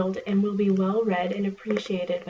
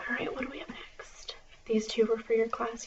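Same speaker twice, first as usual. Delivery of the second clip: library whisper. Acted.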